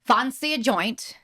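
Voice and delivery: slow English accent with broad A. Shown as a demonstration. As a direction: model 'Fancy' in English, drawn out with 'ah'. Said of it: "the English accent with the A's".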